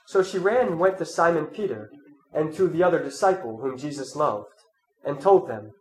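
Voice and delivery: measured, solemn Gospel reading; scripture reading. Acted. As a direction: read the Gospel to the congregation. Reads the Gospel aloud.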